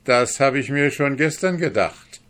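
high and loud, "gestern" stressed; loud gloating. Acted. Guest gloats at the kneeling dwarf, loud. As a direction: crow over the dwarf's failure. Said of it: "antwortete der Fremde mit Lachen".

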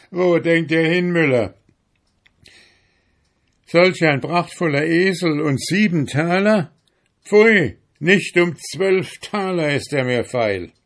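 high, indignant scorn; mocking. A narrator's reading. Donkey owner refusing seven talers for his splendid donkey, mocking. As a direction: scoff as if the offer were an insult. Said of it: "spottete der Eselsbesitzer".

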